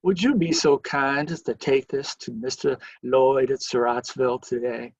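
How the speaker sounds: lightly put-on genteel Southern accent; a courteous request with a hint of Southern accent; mild Southern gentleman's accent. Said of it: "in his finest Southern accent".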